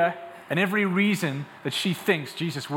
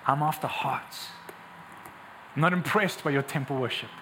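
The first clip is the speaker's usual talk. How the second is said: low-key, sincere appeal; tender Jesus; 3 semitones lower, 3 dB quieter than usual. Acted. Preacher as Jesus seeking lonely ladies at a well, tenderly. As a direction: lower the voice and speak heart to heart. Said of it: "In other words, he's saying this".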